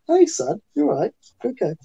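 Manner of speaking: high, hammy West Country pirate voice; cheery comic pirate greeting a kid; Pirate Pete. Retold or imitated. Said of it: "that was the birth of Pirate Pete, who was my comedy character".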